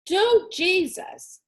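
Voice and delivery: high, slow, wild cry; wild scream. A narrator's reading. Willie Mae screaming on hearing the gunshot, high and wild. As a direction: scream it out to the sky. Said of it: "she screamed, her voice high and wild".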